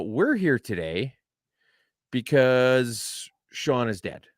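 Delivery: slow, grave mock eulogy; deadpan a fake funeral announcement; mock solemn. Joking to the guest host, slow mock-solemn announcement.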